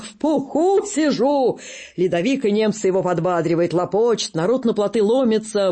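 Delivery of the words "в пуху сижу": cheerful. Acted. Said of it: "А Косой весело".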